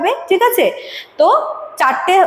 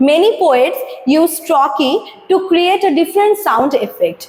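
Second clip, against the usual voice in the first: slow, deliberate textbook read-out; slow reading aloud; much slower than usual. Acted. Teacher reading the definition to students, slow and deliberate. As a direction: read the definition slowly for the class. Reads textbook line slowly.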